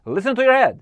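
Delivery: a loud, high command of "Listen to your head"; commanding order. Shown as a demonstration. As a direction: bark "Listen to your head" as a firm order, not a request. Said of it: "rodzaj polecenia albo rozkazu".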